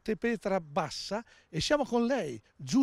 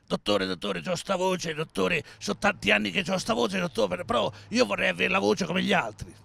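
lightly voiced deep-voiced patient pleading; a hint of a booming voice begging the doctor; big-voiced patient; 4 semitones lower than usual. Joke patient begging the doctor for a normal voice, mock big voice. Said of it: "aveva questo vocione".

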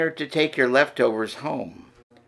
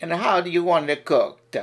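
put-on Luigi Italian accent; 4 semitones higher than usual. Waiter Luigi asks the diner in an Italian accent. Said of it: "Listen and learn".

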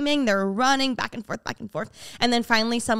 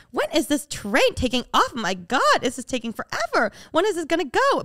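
mock impatience; 5 semitones higher than usual. Acts out her impatience, waiting.

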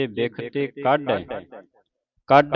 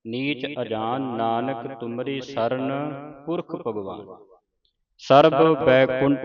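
scripture recitation. Acted. Teacher reciting Gurbani for students to follow, measured recitation. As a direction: recite each phrase clearly, pausing between phrases.

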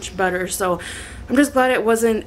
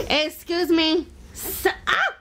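startled; 8 semitones higher, 5 dB quieter than usual. Real, not acted. Toddler grabbing camera.

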